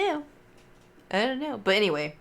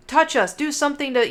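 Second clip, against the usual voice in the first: higher, louder, play-acted dare; mock spirit summoning; 6 semitones higher, 4 dB louder than usual. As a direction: taunt the ghost, half joking. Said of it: "we were just bullshitting".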